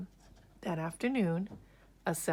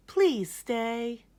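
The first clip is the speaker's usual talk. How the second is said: begging; 5 semitones higher, 5 dB louder than usual. A narrator's reading. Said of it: "Miss Spider begged".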